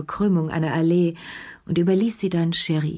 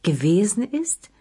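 Gewesen ist? pointedly raised; stressed echo; 4 semitones higher than usual. A narrator's reading. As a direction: lean on Gewesen ist? mockingly. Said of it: "betonte Lea".

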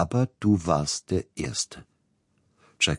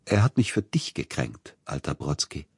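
put-on tender reply to old friend Brodsky. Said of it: "fast zärtliche Sanftheit in der Stimme".

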